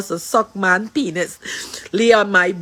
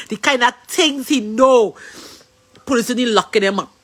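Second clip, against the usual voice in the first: tearful plea. Real, not acted. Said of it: "what I'm crying about".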